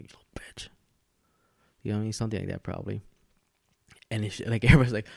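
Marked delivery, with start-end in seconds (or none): 0.0-0.7 unvoiced hissed whisper under the breath; imitating a muttered whispered insult; mock whisper. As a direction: whisper it like a sly aside. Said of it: "he probably whispers".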